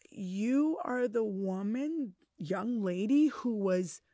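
a lightly voiced stern judge, slow. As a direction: judge scolding a teen girl in court, slow and stern. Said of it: "And he was like".

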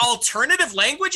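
a laughing, rising can-you-believe-it; incredulous. Real, not acted. Mocking the subtitle to her co-host, incredulous. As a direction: echo the words back in disbelief.

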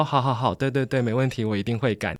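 imitating an eager-to-please boyfriend, quick agreement tailing down; lightly acted appeasing promise; placating. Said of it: "比较温和的男生还会先讨好". (模仿男友连声讨好)

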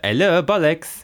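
light mock French accent. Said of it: "in a French accent".

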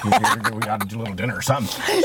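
quick auctioneer's sales talk, half-imitated; fast auction patter. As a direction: rattle it off like an auctioneer. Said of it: "did you say that in your auction speak".

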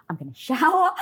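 high, loud, breaking into a laugh. Retold or imitated. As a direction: laugh through the word shower. Laughing while telling plan.

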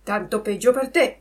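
the cat's mocking echo. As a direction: parrot the fox's words as the cat. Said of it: "ripeté il gatto".

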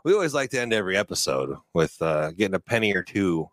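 a hint of a fight announcer. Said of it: "it was my announcer voice".

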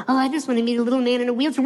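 quick, sarcastic dreamy-girl imitation; lightly voiced little girl; mock little girl. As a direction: mimic a wishing girl, rushed. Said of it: "ever since little girls gr-, growing up".

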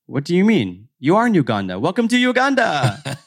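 mock driver voice. Ugandan driver quoted welcoming her.

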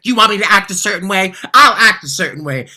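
loud, high, fast defiance; loud, fed-up retort to the producers; frustrated retort. Retold or imitated. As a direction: spit it back, fed up. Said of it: "I was just so frustrated".

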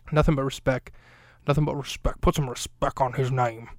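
lightly voiced mock tough guy, half-hearted; a hint of a swaggering tough guy demanding respect. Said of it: "I'm doing that character".

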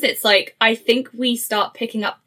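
normal talking voice

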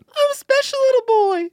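put-on very high childish boy voice; little boy voice. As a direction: squeak it like a proud little kid. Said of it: "You didn't do a voice once".

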